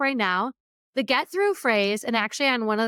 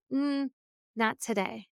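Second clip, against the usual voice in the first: quiet self-talk; 6 dB quieter than usual. Retold or imitated. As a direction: murmur it to yourself, pushing the doubt down. Quietly telling herself off.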